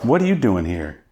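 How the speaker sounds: high, startled calling of the name; surprised recognition. Retold or imitated. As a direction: imitate an old dealer spotting him by surprise. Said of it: "He goes".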